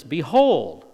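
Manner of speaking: loud proclaiming call; emphatic shout. Acted. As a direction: make the word ring out. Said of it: "there's your emphasis".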